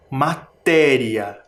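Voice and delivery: Matéria slow, pause before long TÉ; stressed-syllable demo. Shown as a demonstration. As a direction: set TÉ apart in Matéria. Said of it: "Também tem sílaba tônica". (Matéria devagar, destacando TÉ)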